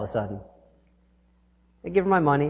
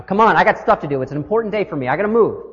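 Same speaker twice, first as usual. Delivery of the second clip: louder, pushy complaint at the traffic line; impatient cursing; 3 semitones higher, 4 dB louder, faster than usual. Retold or imitated. Driver stuck in toll line, impatient louder complaint. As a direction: grumble like you're late for everything. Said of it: "I'm cursing and saying".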